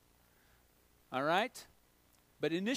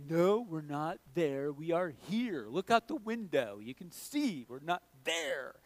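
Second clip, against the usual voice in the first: sarcastic dad; 3 semitones lower than usual. Retold or imitated. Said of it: "Captain Sarcastic came out".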